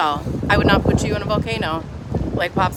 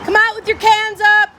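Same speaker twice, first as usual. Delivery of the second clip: louder, higher mock command; mock order; 11 semitones higher, 6 dB louder than usual. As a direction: bark it like a police loudspeaker. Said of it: "repeat of quoted order".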